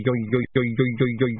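imitated spinning plate sound; wobbling plate noise. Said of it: "goying sound".

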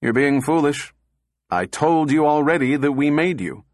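firm and annoyed; set-jawed rebuke; stern. Acted. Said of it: "Powell's jaw set lumpily".

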